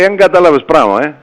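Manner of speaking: lightly imitated heavy Cypriot accent; a touch of Cypriot accent; imitated Cypriot dialect. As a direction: quote a local in Cypriot dialect. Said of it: "Με τα βαριά κυπριακά".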